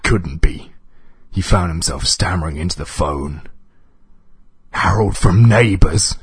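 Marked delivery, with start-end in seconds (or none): 4.7-6.2 louder, higher, anxious query; nervous question. A narrator's reading. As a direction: ask in nervous disbelief. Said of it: "he asked nervously".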